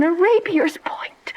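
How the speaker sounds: slow, breathless whisper; whispered dread at the vision; horrified whisper. Acted. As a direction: breathe it in horror. Juliet imagines the ghost.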